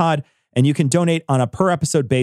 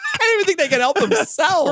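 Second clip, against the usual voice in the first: high, shrieking laugh through the words; can barely talk for laughing; laughing hard; faster than usual. Real, not acted. Host cracking up about the man called Dragon.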